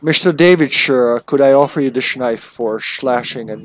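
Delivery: lightly slurred Scottish movie-star impression; mock Scottish gentleman; Sean Connery. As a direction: turn the s sounds into sh. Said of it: "Sean Connery accent".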